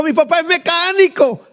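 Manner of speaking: high, light voice of a small schoolboy; child's voice. Retold or imitated. Pastor voicing a classmate answering the teacher, high child voice. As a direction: pipe up like a little kid.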